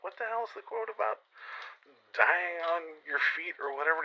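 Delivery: panicked falsetto grasping for words; high-pitched flustered plea; frantic high squeak. Retold or imitated. Fumbling for a quote at gunpoint.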